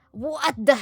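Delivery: sharp startled outcry; shocked gasp. Acted. Shock at living meat.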